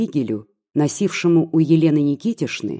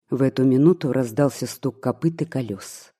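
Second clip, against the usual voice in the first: usual speaking voice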